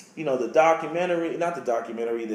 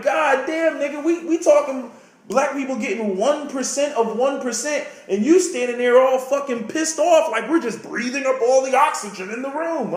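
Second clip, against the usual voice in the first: exasperated retort; 7 semitones higher than usual. Retold or imitated. Telling off resentful people, higher exasperated rant. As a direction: throw up your hands in disbelief. His own retold exasperation.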